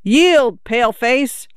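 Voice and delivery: put-on a little girl's battle shout, full of play; shouted at top of voice. A narrator's reading. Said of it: "shouted at the top of her voice".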